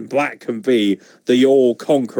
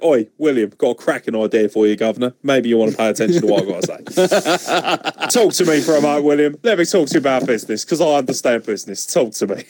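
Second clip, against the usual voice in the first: lightly put-on Cockney wide-boy patter; terrible Cockney accent. Podcaster mock-pitching an idea to William Regal by phone, hammy Cockney. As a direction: ham up a bad Cockney accent, half laughing. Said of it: "my terrible Cockney accent".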